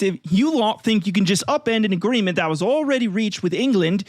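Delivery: mock furious tirade at the Icelanders; mock yelled rant. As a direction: rant like an outraged skipper threatening the coast guard. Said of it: "what Peter Scott yelled at the".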